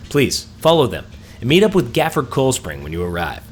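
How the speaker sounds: lightly voiced quest giver reading out orders. Gnome rescuer praises and directs the survivor, lightly acted quest-giver voice. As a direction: read it as a game character addressing the player.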